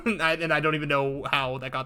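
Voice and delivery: breaking into laughter; real laugh into the word. Real, not acted. Laughing at what they saw.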